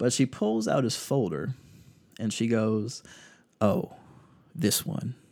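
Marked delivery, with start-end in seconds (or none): 3.6-5.1 acted, woeful, heavy-hearted, mournful voice. Retelling how a girl pulled out a folder and spoke, imitating a very sad voice. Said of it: "in like the most saddest voice you can imagine".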